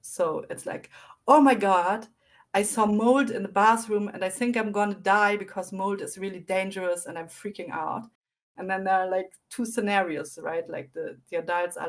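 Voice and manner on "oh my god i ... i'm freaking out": put-on louder, frantic start, like a frightened kid; scared child panicking. Child bursts into adult room, mock panic. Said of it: "it's very scared".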